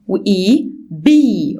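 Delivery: slow وإي بي with a long ee; slow blend. Shown as a demonstration. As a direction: draw out the blend. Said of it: "اللونج فاول ساوند اسمه اي".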